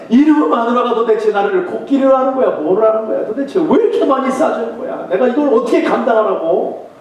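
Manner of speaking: high, loud mock grumble about his wife; same hammed-up grumble as every day; loud grumbling complaint. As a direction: complain loudly so everyone hears. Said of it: "똑같은 말을 하는 거예요".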